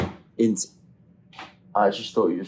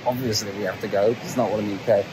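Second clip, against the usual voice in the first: mocking; much faster than usual.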